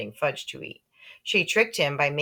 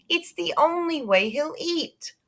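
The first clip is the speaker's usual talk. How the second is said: much higher, pleading mother; desperate mother; 12 semitones higher than usual. Acted.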